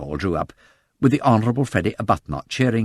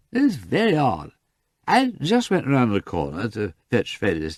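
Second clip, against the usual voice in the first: put-on drunk rambling. Lord Peter muddles over the taxis, tipsy. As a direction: lose the thread like a drunk.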